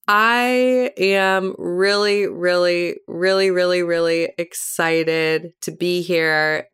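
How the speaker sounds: put-on slow, drawn-out Valley Girl voice. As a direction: stretch each really like a Valley Girl. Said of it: "the Valley Girl voice when I'm here".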